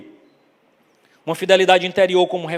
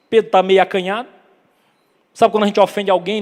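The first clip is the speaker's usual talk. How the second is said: normal talking voice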